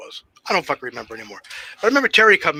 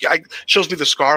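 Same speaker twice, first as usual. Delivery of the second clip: ordinary talk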